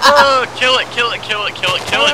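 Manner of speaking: high panicked screaming; screaming at a spider. Real, not acted. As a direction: shriek kill it in panic. Panicked yelling at a mob.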